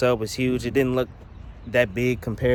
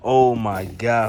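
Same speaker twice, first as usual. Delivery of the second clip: awed; 6 dB louder, slower than usual. Real, not acted. Reacting to huge sub.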